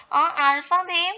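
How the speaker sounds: "alpha may" ending on the vowel, no T; silent final consonants. Shown as a demonstration. Teacher showing the rule, "alpha may" with silent T. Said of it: "We have not pronounced T here".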